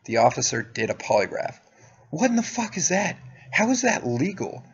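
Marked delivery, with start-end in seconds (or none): 2.1-4.6 much higher, indignant questioning; incredulous outrage. Real, not acted. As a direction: pitch it way up in disbelief. Outraged at officer's polygraph use.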